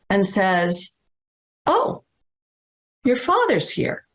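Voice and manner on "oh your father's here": higher, gentle voice of a little psychic; the psychic's voice. Retold or imitated. Mother retelling the psychic apologising for her father, voiced higher. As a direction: lift the voice into a small woman's apology.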